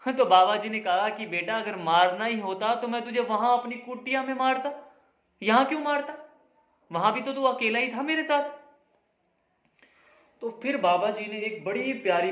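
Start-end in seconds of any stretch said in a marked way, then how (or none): 1.3-8.5 raised-pitch, mildly indignant reasoning; remonstrating. Acted. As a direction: argue back at an absurd suspicion. बाबा लड़के का शक काटते हैं. (हल्की झुँझलाहट से समझाते हुए)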